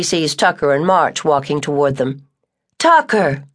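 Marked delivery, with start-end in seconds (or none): 2.8-3.4 raised, bright call of a name; glad exclamation. Acted. Ella spotting Tucker coming up the path, delighted. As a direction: greet him with surprise. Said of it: "she exclaims".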